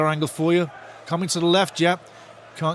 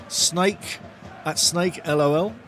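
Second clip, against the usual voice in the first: ordinary delivery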